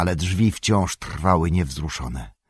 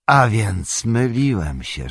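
Gandalf; 4 semitones higher, 3 dB louder, slower than usual. A narrator's reading. Gandalf admits his mistake.

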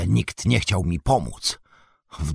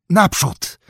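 high, loud rallying shout; calling out; 12 semitones higher, 7 dB louder, slower than usual. A narrator's reading. Sam urges his pony forward, calling out. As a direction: shout them forward, pitch leaping up. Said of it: "zawołał sam".

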